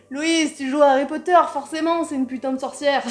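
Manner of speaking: mock telling-off of herself; mock scolding. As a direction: tell yourself off jokingly.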